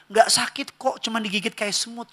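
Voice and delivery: lightly voiced doctor coaxing a child; reassuring doctor. Doctor to child before the injection, mock-reassuring. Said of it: "dokter bilang".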